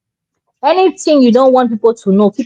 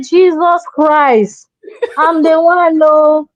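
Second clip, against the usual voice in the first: crying out, higher, slow on Jesus Christ; mother's dismayed cry; 5 semitones higher, much slower than usual. Retold or imitated. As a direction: imitate the mother wailing in dismay. Mother's shocked cry, retold.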